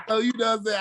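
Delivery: real laugh spilling into words. Real, not acted. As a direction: laugh through the line. Laughs at his own story.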